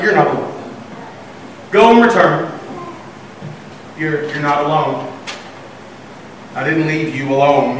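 unhurried, low-key comfort; patient, softened answer; calm reassurance. Retold or imitated. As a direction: reassure gently, with pauses. God calmly reassures Elijah.

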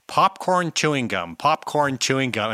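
lightly exaggerated American twang; mock American accent. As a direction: imitate a foreigner mocking an American accent. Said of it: "when he would make fun of Americans".

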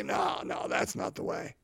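breathy whisper, brushing the idea off; whispered dismissal. Retold or imitated. Preacher voicing judges who reject John, in a dismissive whisper. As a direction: whisper it like a scornful onlooker. Mocking the judging crowd.

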